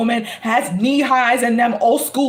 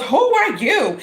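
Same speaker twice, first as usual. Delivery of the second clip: put-on rude kid; 5 semitones higher, slower than usual.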